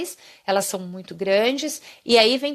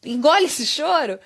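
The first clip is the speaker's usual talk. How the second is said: dismissive adult; 5 semitones higher than usual. Retold or imitated. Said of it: "você vai falar pra criança".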